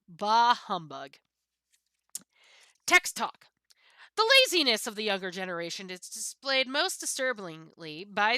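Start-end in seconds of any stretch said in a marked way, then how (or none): 0.1-3.5 Scrooge voice. Pretend. Scrooge line after three ghosts.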